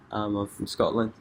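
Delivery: a light Scottish accent put on. Shown as a demonstration. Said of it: "but if I put my accent on".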